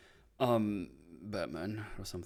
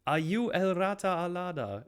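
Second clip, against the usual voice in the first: imitating detective; 9 semitones higher than usual. Detective presses Penguin about the rat, mock pressing. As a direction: lean on the suspect. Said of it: "Batman interrogates Penguin".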